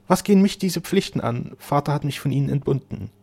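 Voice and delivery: high, forceful protest; impassioned defiance. A narrator's reading. Flora rejects the duties of rank, impassioned protest. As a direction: throw off the objection with passion.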